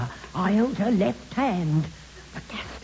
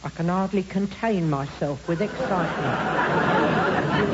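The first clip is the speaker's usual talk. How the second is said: sarcastic; 2 semitones lower than usual. Acted. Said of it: "dangerously close to a smack".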